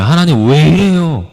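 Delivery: pleading complaint to God. Retold or imitated. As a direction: demand answers from God, voice up and pressing. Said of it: "따지는 거예요".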